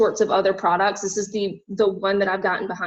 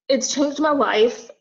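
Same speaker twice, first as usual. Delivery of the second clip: tearful; 5 semitones higher, slower than usual. Real, not acted. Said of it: "I'm gonna start crying".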